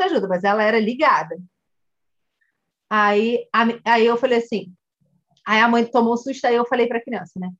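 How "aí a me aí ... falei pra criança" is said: ordinary delivery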